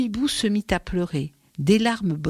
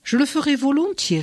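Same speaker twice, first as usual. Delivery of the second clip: higher, kindly moon voice; the moon gently agreeing to help; gentle moon; 8 semitones higher than usual. A narrator's reading. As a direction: answer the mother gently, as the moon. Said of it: "répondit la lune gentiment".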